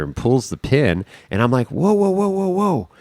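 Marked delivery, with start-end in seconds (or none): 1.7-2.9 high, rapid-fire plea to stop; retold urgent halt. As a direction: re-enact frantically holding someone back. Retold urgent stopping of another man.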